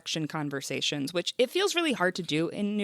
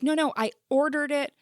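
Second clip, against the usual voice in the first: higher, louder insistent protest; mock pleading; 7 semitones higher, 4 dB louder than usual. Voter without papers protesting at the polls, mock pleading. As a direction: plead your case as an imagined voter.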